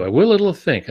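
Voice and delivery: put-on lightly echoing Einstein's German accent; a writer borrowing Einstein's phrase in a mild German accent. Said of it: "in a heavy German accent".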